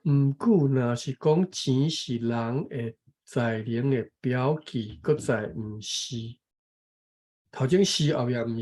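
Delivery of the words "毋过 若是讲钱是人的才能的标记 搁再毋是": measured, careful reading of a text; reading aloud. Real, not acted. Taking a turn to read the passage, careful reading aloud. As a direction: read it out phrase by phrase.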